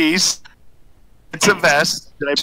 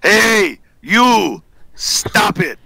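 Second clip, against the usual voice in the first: raised, higher-pitched imitation of a loud uncle; 5 semitones higher, 3 dB louder, much slower than usual. Imitating his uncle ordering someone to stop, loudly. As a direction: call out like the loud uncle, drawn out. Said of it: "he really loud".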